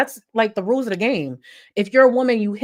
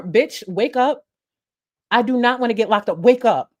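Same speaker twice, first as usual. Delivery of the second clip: panicked plea; 4 semitones higher, 4 dB louder than usual. Retold or imitated. Retold panic over unconscious woman.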